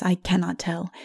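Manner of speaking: usual speaking voice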